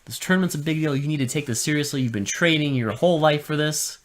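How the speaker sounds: scolding the student in a mild mock master voice; stern master.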